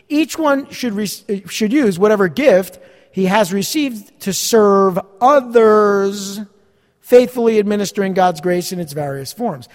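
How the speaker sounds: slow, deliberate reread with weighted key words; emphatic scripture reading. Real, not acted. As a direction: lay the verse out word by word for the congregation. Repeats the verse for emphasis.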